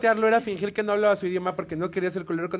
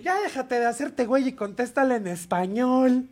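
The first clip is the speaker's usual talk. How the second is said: put-on drunk friend; 4 semitones higher, 4 dB louder, slower than usual. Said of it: "y dice".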